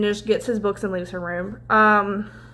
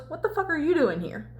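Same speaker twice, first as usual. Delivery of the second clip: lightly voiced challenge, higher and softer; retold challenge; 4 semitones higher, 4 dB quieter than usual. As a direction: imitate a confronting question, emphasis off YOU. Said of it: "Cal goes".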